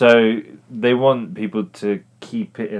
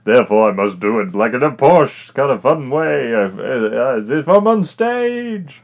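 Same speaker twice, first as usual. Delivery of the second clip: posh British accent; 3 dB louder than usual. Shown as a demonstration. East Londoner mimics actor playing to American audiences, posh British accent. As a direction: ham up British posh as if on stage. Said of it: "I'm doing a British accent now".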